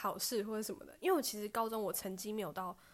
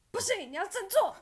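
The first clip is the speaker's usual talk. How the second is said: loud, higher pep talk to herself; self pep talk; 10 semitones higher, 9 dB louder than usual. Retold or imitated. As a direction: snap yourself out of it. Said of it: "我说".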